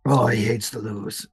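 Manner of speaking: low, amused aside; snorting with laughter. A narrator's reading. Bartender mocking his partner after he leaves, mildly amused. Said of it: "just snorts with, with laughter".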